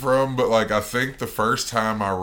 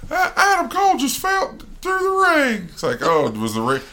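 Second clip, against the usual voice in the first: high, excited announcer voice; excited commentary. Pretend. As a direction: call it like a ringside announcer. Mock wrestling commentary.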